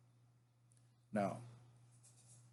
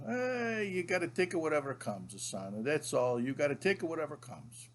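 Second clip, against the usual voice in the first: grandpa impression; 2 semitones higher than usual. Grandfather lighting up advises grandson, lightly imitated grandpa voice. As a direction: imitate grandpa handing down a resigned saying. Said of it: "and then he would go".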